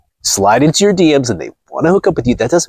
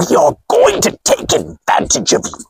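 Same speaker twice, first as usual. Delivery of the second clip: mock villain.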